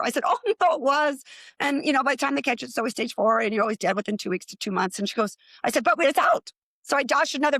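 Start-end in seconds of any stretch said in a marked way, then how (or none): 0.2-1.2 laughing. Retold or imitated. Laughing correction to mom. 5.8-6.5 high, loud, beaming; triumphant. Retold or imitated. Reassuring her mom the cancer is gone, triumphant.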